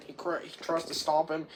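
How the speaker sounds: ordinary talk, nothing marked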